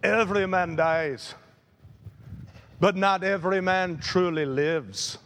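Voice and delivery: lightly attempted Scottish brogue. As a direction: quote the hero with a hint of Scottish accent. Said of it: "in his Scottish brogue".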